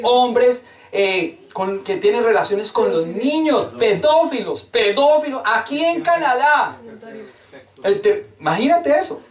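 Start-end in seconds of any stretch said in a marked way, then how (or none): none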